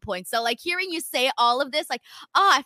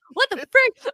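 exasperated; 11 semitones higher, 7 dB louder than usual. Retold or imitated. Retold frustration at airport.

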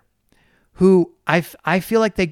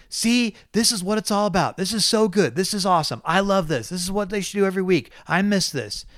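mock-gushing fan, a bit higher; gushing fan imitation; 5 semitones higher than usual. Host imitating Twitter fans raving about the race, mock-gushing. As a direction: ham up an excited fan. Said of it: "people on Twitter going".

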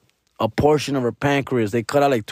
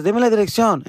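high put-on voice of his mom; mom's voice; 9 semitones higher than usual. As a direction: raise the voice to play mom asking for the address.

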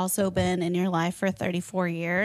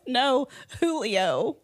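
laughing quote; 3 semitones higher, much slower than usual. Retold or imitated. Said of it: "And he goes".

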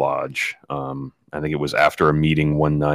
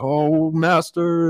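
slow, high imitated Russian accent; drawn-out mock Russian plea; thick Russian accent; 12 semitones higher, much slower than usual. Stranger on his knees before the master, slow high Russian accent. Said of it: "very thick Russian accent".

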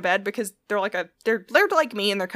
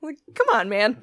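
laughing exasperation. Real, not acted. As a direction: laugh it out, come on.

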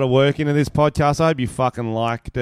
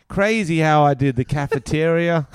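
put-on Canadian accent; 4 semitones higher, 4 dB louder than usual. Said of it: "can I do a Canadian accent?".

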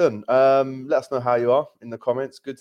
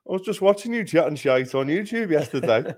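higher-pitched, lightly mocked fan voice; imitating a passer-by; 6 semitones higher than usual. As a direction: lightly imitate a chatty stranger, amused. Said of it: "And he went".

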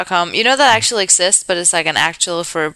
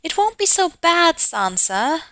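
put-on high, bright little girl reading; voicing the younger sister with high eagerness; girlish Arya voice; 9 semitones higher than usual. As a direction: pitch way up like an excited young girl.

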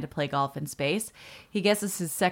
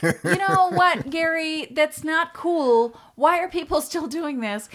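high, indignant telling-off; scolding; 10 semitones higher, 4 dB louder than usual. Retold or imitated. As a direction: call out the litterer loudly. Scolding litterer retold.

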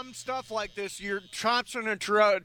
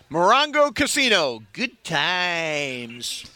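lightly voiced radio promo, slow; slow casino promo read, "good times" dropped low; Billy Mack promo read; 4 semitones lower, much slower than usual. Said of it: "how does Billy Mack say it".

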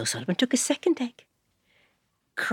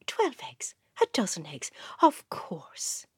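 surprised mother; slower than usual. Acted. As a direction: gasp it out in surprise. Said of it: "said the mother".

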